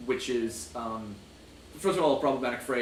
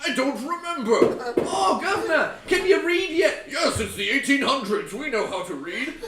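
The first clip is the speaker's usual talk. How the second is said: high, hammed-up London accent, louder; mock British accent; 9 semitones higher, 5 dB louder than usual. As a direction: keep the silly Cockney voice going. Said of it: "keep up this bit".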